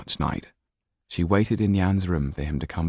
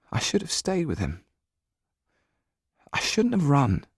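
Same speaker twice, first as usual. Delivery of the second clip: Jan's regret; 9 semitones higher than usual. Acted. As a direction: choke on the guilt. Jan near tears.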